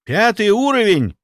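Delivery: high, loud, amazed echo; astonished. A narrator's reading. Another inquisitor reacting to the threat level, astonished. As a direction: repeat it in disbelief, pitch leaping up. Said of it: "присвистнул один из инквизиторов".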